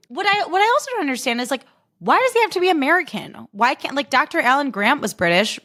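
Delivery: high-pitched, whiny bafflement; exasperated complaint. Real, not acted. Podcaster questioning an actor's American accent, exasperated. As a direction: protest it way up high. Mock complaint about the casting.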